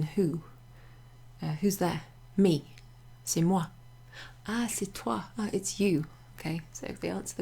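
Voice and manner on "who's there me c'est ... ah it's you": short example exchange, weight on each pronoun; emphatic pronouns. Shown as a demonstration. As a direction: punch ME, moi, toi and YOU. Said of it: "You would say them emphatically".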